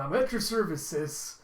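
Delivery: eager, upbeat brother; happy greeting. Acted. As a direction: burst in happily to greet your sister. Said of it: "Yuri just happily coming in going".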